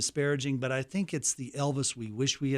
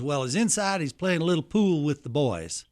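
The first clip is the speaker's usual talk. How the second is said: a hint of a remembered Southern uncle, pitched up; Uncle Vester; 2 semitones higher, 3 dB louder than usual. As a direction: lightly impersonate a folksy security man chatting. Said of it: "I can hear him talking just like this".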